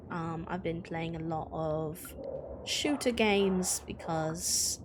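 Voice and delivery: shaky attempt at a British accent; British accent that keeps drifting; bad British accent. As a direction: chat casually in an amateur British accent. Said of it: "so my bad British accent can go away".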